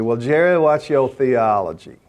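a light imitation of a Southern minister, slowed; Southern drawl. Southern minister asking Jerry about his theology, in a mild Southern drawl. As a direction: lightly mimic a Montgomery preacher's slow Southern drawl. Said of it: "That's the way they talk down there".

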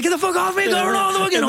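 very high squealing protest; laughing protest. Retold or imitated. Friend under him during mortar fire, squealing high. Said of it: "And he's like".

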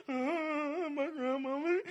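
mock wail. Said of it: "I'm laying".

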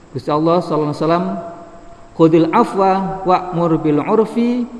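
traditional Javanese-Arabic study reading; kitab gloss reading. Acted. Recites verse and Javanese gloss.

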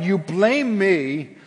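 loud, high pleading voice of God; voicing God. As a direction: plead as God calling his people back. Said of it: "God's saying".

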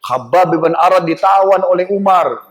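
slow, drawn-out mock lookout's call; mild imitation of a shouted alert; retold alarm cry. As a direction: call out the warning without full shouting. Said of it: "Teriak dia".

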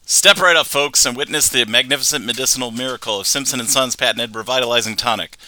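a hint of a carnival barker; lightly hammed sales spiel; chirpy trade show pitch. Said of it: "I actually did write down his entire, um, little speech".

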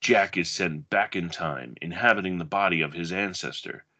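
dramatic blurb reading, measured pace; movie blurb read. Acted. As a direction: read it like a video box cover. Reads a movie back cover.

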